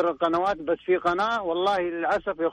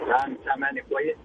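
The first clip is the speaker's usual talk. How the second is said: phone on speaker; 5 semitones lower than usual. Real, not acted. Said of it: "ماني سامعك كويس".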